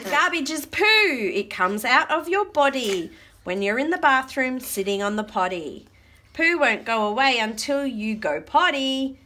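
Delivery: animated rhyming read-aloud; reading to children. Acted. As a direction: read the verse out for little listeners. Reads rhyming book aloud.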